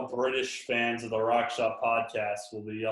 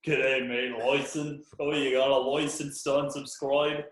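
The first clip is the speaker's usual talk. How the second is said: a lightly done Australian impression; hint of an Australian "G'day, mate"; mock Aussie accent; 3 semitones higher than usual. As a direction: parody his Aussie line. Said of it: "It's like Aussie".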